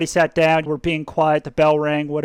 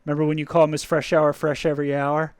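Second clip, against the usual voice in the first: friend teasing; 4 semitones lower, 4 dB quieter than usual. Retold or imitated. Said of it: "He'll be like".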